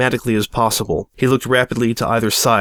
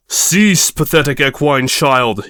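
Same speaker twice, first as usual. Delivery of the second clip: louder, slow commanding cry; villain shout; 2 semitones higher, 3 dB louder, slower than usual. Acted. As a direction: halt her with a shout. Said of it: "he shouted".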